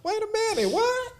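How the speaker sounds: giggling through a sleepy retelling; laughing retelling. Real, not acted. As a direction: crack up while acting out being woken. Acting out being woken, laughing.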